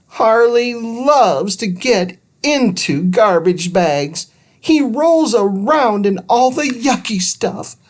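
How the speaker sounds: put-on high, worried kid voice; a girl sure trouble is coming; fretful girl. Judy to Andrew about the dog, high and worried.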